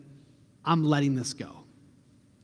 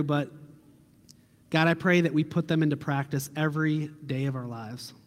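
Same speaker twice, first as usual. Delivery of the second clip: closing prayer; 2 semitones lower than usual. Acted. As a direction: pray it gently over the church.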